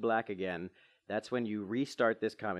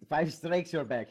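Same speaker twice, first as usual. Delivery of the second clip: playful put-on Russian accent; 5 semitones higher, 4 dB louder, slower than usual. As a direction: echo it in a silly Russian accent. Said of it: "doing our stupid Russian accent".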